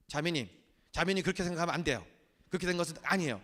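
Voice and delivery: fast, curt, scolding read; harsh reading. Shown as a demonstration. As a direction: read it as a cold rebuke. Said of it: "자기가 읽을 때 그렇게 읽는 거야". (빠르고 딱딱하게 나무라듯)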